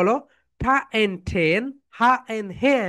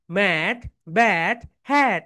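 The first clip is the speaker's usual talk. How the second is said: quick reading; much slower than usual. Shown as a demonstration. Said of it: "এটা স্পিডে পড়বে".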